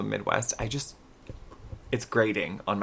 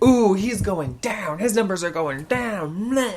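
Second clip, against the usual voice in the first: high, drawn-out mock gloating; gleefully excited; 8 semitones higher, 4 dB louder, slower than usual. Daughter jeering at falling poll numbers, gleefully excited. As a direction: crow it slowly, high and teasing. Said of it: "she's very excited".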